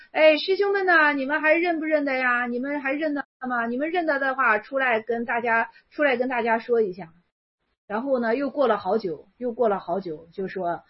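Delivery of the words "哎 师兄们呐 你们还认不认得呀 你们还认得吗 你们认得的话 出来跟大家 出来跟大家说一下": calling out to the assembly. Acted.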